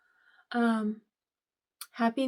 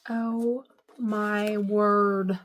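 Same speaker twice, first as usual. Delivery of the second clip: awed; 4 dB louder, much slower than usual. Real, not acted. Overwhelmed by vintage Halloween gift.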